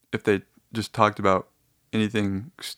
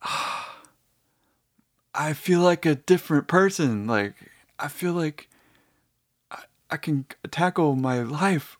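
mock relieved awe; 4 semitones higher than usual. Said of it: "but now you're just thinking".

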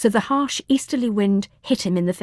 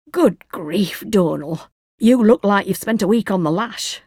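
put-on Yorkshire accent; 4 dB louder than usual. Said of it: "thick Yorkshire accent of his neighbour".

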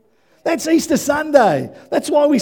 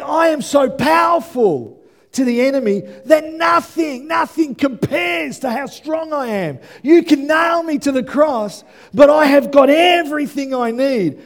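God's bold boast; 4 semitones higher, 3 dB louder than usual. Acted. Preacher voicing God, loud.

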